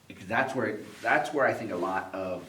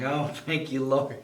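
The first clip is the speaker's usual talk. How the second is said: raised, louder relieved thanks to heaven; hammed-up prayer of relief; a parent's mock hallelujah; mock grateful prayer; 4 semitones higher, 5 dB louder, slower than usual. Mock praise when baby uses toilet.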